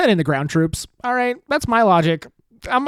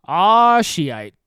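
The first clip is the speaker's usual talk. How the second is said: mock Gulf citizen. Imagined Gulf citizen watching oil fields burn, groaning. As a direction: deliver the pun as a dismayed groan. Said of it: "he says to himself".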